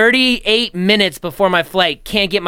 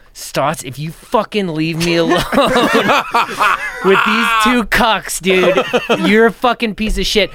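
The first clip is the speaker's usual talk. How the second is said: laughing mock threat; 2 semitones higher than usual. Friend threatening over being left alone, laughing. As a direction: laugh through the fake anger. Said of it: "And he's like".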